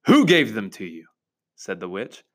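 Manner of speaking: reading aloud to a class; storybook narration voice; story narration. Acted. Reads Narnia passage aloud.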